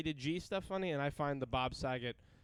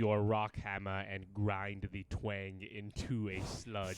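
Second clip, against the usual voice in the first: Alan Rickman impression; 5 semitones lower than usual. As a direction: draw each word out like a stern potions master. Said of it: "You sound like Alan".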